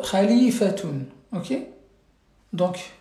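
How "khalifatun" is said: Khalifatun spelt out slowly with a guttural kh, each syllable clear, ending tun; slow model pronunciation. Shown as a demonstration. Teacher to pupils, slowly modelling Khalifatun with guttural kh.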